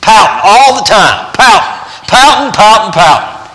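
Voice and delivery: high, hammed-up repeated pouting; sing-song mock of a sulky dog; teasing the pouting dog.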